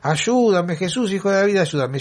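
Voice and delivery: repeated cry for help. Retold or imitated. Blind man calling after Jesus through the crowd, mild mock yell. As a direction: keep calling out, a touch of desperation. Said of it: "por mucho tiempo gritándole".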